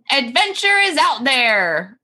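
put-on young Ellie. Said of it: "gonna be young Ellie".

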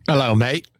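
badly faked Liverpool greeting; terrible Liverpool accent. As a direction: attempt a Liverpool accent and miss. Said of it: "I can't do a Liverpool accent".

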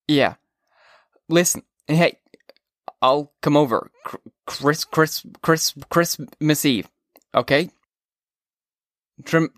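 put-on stammering drunken rambling; drunk slurring. A narrator's reading. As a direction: slur and repeat words. Drunk Holden on phone.

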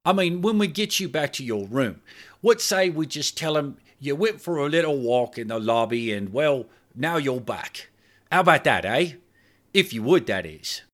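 hotel man nervously bargaining for silence; nervous Clive. Acted. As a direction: wheedle her into agreeing. Clive voiced by narrator.

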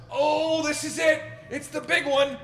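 high, loud mock dread; panicked. Curled up on the ground mid panic attack, in mock terror. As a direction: whimper it like it's the end. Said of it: "curled up on the ground".

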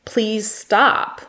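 calm, measured plea. Retold or imitated. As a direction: say it evenly and gently, unhurried. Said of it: "calmly stated".

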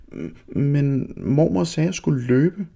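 put-on girl insisting to her mother; insistent child. A narrator's reading. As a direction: stammer out the protest.

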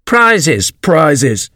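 high, jumbled chorus of birds; confused crowd calling. A narrator's reading. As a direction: birds clamouring over each other. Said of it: "calling out in confused way".

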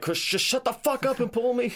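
high, strained pretend irritation; mock angry. Impaled friend snapping at joking rescuer, mock angry. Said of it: "I would be so mad".

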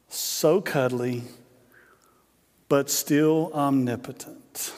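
slow, measured mock prayer; subdued table grace, words stretched and spaced out; Ricky Bobby. Movie father praying to baby Jesus, slow earnest grace. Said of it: "go back and listen to it".

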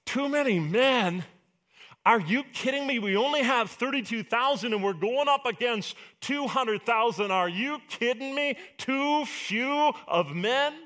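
high, disbelieving cry of protest; incredulous protest. Acted. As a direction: react as if God can't be serious. Gideon protests God's order.

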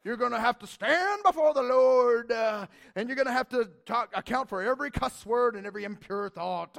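loud stern preacher warning; a touch of mock hellfire sermon; fire and brimstone preacher. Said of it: "what sometimes is taught".

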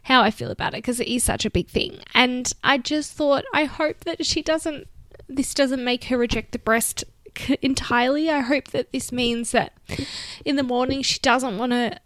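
real emotion pushing through the words; getting emotional. Real, not acted. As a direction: voice catching as the feeling rises. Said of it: "I'm gonna get emotional when I'm talking about it".

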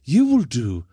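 mock threat in a German accent. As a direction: threaten like a comic German camp henchman. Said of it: "that was a great German accent".

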